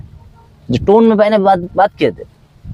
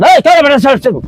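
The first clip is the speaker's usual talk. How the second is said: scolding call; 8 semitones higher, 4 dB louder than usual. Shown as a demonstration. Teacher demos scolding call to student.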